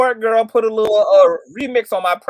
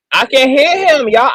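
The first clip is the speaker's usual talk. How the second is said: insistent; 4 semitones higher, 6 dB louder than usual. Real, not acted. Insists she hears the bishop.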